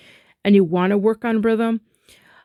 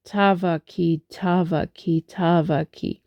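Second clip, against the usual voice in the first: "Tavaki" repeated evenly, TA lightly stressed; rhythmic syllable repetition; slight downbeat emphasis. Shown as a demonstration. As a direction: drill "Tavaki" in steady threes. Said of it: "slight emphasis again on the downbeat".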